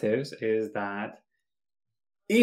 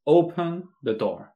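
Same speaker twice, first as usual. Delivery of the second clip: higher, slow commanding order; direct order; 6 semitones higher, slower than usual. Shown as a demonstration. Teacher giving the bare command, direct order.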